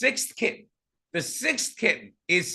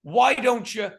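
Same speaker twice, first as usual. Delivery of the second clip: mock suggestion; 5 semitones higher, slower than usual. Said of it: "He doesn't say".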